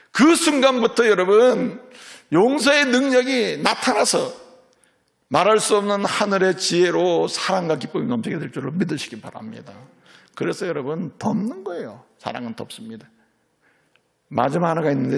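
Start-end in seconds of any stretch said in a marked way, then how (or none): 0.1-9.7 high, loud fervent sermon; preaching at full force. Acted. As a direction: drive it home to the congregation. (힘있게 외치는 설교)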